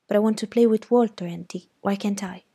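put-on fast, pleading girl; pleading child. Scout pleading with her aunt to play with Walter. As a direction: beg to be allowed.

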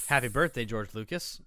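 a loud cheery "Happy birthday, George Lucas"; birthday shout-out. Real, not acted. Podcaster loudly wishing George Lucas happy birthday, cheery shout. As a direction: call it out like a toast.

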